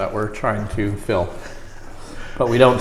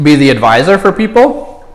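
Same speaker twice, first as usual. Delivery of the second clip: laughing through the heat; 5 semitones higher, 4 dB louder than usual. Real, not acted. Laughing mid-answer, burning mouth.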